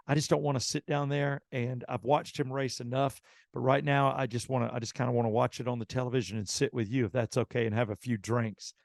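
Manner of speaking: quietly voiced sweet, polite Southern lady; sweet Southern mother. Race driver's nervous mother asks to sit at the bar, sweet and low. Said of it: "very sweet, very Southern, very nice".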